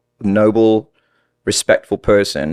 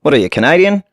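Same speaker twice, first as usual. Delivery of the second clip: puzzled listener; 8 semitones higher than usual. Retold or imitated. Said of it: "The moment someone's like".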